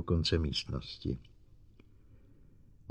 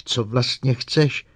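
higher, slow, stretched-out demand; outcry; 5 semitones higher, 4 dB louder, slower than usual. A narrator's reading. Psychologist pushes the robot away, demanding outcry. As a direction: cry out the question, drawn out. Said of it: "spíše výkřik".

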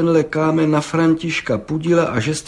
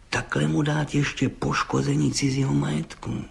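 soft, sly half-whispered tattle; vindictive; 3 semitones higher, 5 dB quieter than usual. Acted. Gendarme vindictively adding a charge, half-whispered. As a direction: slip in the extra charge spitefully. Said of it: "řekl mstivě".

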